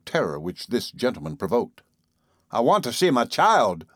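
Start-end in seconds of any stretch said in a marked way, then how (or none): 2.5-3.9 higher-pitched, desperate demand; mild shriek, on the verge of collapse; almost shrieking. A narrator's reading. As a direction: push it up toward a shriek. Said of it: "Mister Button almost shrieked".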